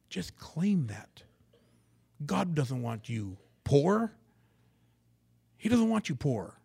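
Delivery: lightly hammed-up preacher promise, lifting in pitch; mock prosperity preacher. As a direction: imitate a TV preacher selling blessings.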